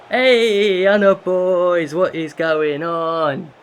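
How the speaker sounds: loud, high, slow stretched outcry; mock outraged call. Real, not acted. Manager reacting to a sudden penalty, loud mock outcry. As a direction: drag it out like a mock telling-off.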